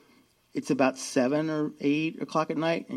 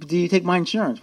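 louder, pushing the question again; insistent repeat; 4 semitones higher, 5 dB louder than usual. Retold or imitated. Repeats question, ignoring theirs.

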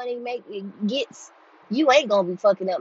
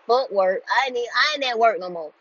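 retold losing it; 3 semitones higher than usual. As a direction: blow up as you retell it. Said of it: "I lost it".

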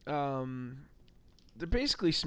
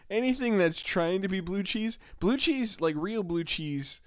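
emphatic disgust; 6 semitones higher, 3 dB louder than usual. Real, not acted. Disgust rant about blue cheese.

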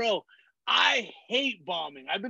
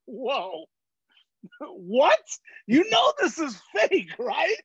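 amused disbelief; 3 semitones higher, slower than usual. Retold or imitated. Retelling his answer to the angry wrestler, laughing disbelief. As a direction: laugh it off, incredulous. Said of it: "I'm like".

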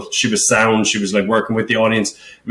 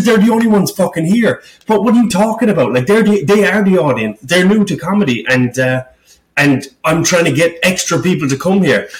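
retold angry reply; 5 semitones higher than usual. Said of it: "I was fucking fuming".

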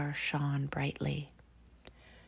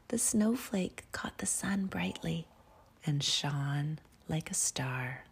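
whispered story. A narrator's reading. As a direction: breathe the story out gently. Whispered bedtime story reading.

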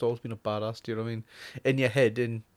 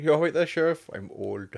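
Arnie. Acted. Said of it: "And he's like".

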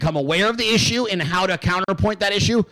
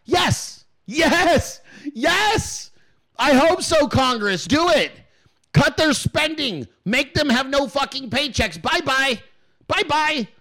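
much higher, gleeful yes; gleeful cheering; 9 semitones higher, slower than usual. Real, not acted. Host cheering Congress to cut FBI funding, high and gleeful. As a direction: cheer it on like a fan.

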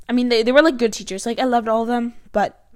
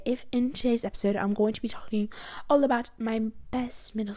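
lightly put-on calming podcast host, softening after the greeting; Growing with the Flow host. Podcaster imitating a favorite calming host, lightly soothing imitation. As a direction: attempt a soothing host voice with a slight English accent. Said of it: "my best impression of Growing with the Flow".

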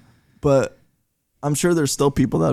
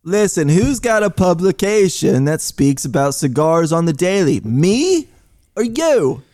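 loud, higher-pitched self-important challenge; arrogant boasting; 5 semitones higher, 5 dB louder than usual. Acted. Cigar publisher putting a lowly reader in their place, arrogant. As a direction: lord it over them, punching the question and answer.

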